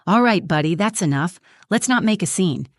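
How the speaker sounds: tense forced-smile warning, teeth clenched; through clenched teeth. Acted. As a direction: hiss it through a fake grin. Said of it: "he said through clenched teeth".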